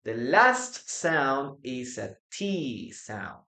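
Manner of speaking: slow, with "T" drawn out in "T sound"; deliberate teacher emphasis on "last" and "T"; stress on T. Shown as a demonstration. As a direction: lean on "last" and stretch the "T". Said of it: "if you pay attention to the pronunciation".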